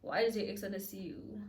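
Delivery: indignant disbelief. Retold or imitated. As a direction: question him with jealous disbelief. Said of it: "So I'm like".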